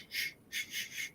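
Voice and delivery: hushed unvoiced shushing; whisper-shush someone to silence. Retelling the movie, shushing the crowd in a whisper. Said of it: "And he's like".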